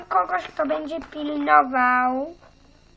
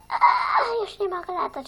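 half crying, half shouting lament; 5 semitones higher than usual. Acted. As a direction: wail it like a drunk, sobbing girl. Drunk girl cries out.

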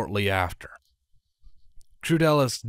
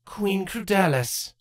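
slow, cool greeting; cool queen's voice; 10 semitones higher, slower than usual. Acted. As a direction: greet her coldly, slowly. Character voice Draco.

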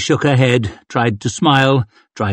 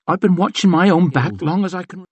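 a hint of defiance; self-reliant retort; lightly voiced tough thief; 6 semitones higher, faster than usual. Chev's defiant reply.

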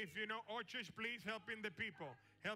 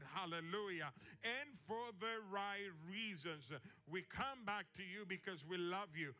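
fervent prayer. Real, not acted. Pastor praying before the congregation, fervent and steady. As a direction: pray it aloud for the whole church. Pastor prays aloud to God.

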